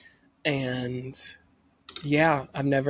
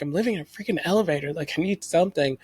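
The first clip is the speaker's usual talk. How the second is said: retold panic; 3 semitones higher, faster than usual. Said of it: "in a panic".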